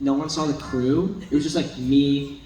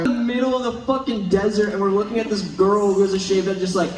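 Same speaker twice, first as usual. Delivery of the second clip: higher, insistent mock protest; raised-pitch, worked-up retelling; imitating exasperated castmate; 6 semitones higher than usual. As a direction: act out a co-star protesting the absurdity. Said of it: "And Eduardo was like".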